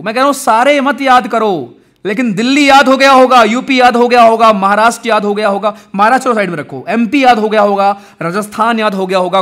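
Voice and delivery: loud, rhythmic roll-call delivery; emphatic recap. Real, not acted. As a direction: drive the list home, loudly, item by item. Rallying students with a recap.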